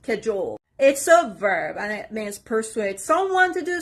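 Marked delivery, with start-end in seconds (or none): 0.0-0.6 "cajole" stressed on JOLE; stress on second syllable. Shown as a demonstration. Teacher showing learners the stress, second syllable stressed. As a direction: say "cajole" with weight on JOLE, first syllable light. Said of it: "The stress is on the second part".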